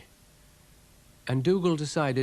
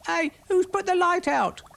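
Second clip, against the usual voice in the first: high, louder squeak; 7 dB louder than usual. Acted. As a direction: squeak it out in alarm. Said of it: "squeaked Brian".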